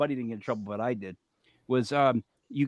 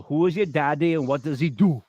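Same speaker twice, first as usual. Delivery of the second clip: Kindergarten Cop quote. Retold or imitated. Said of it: "what was the kindergarten cop".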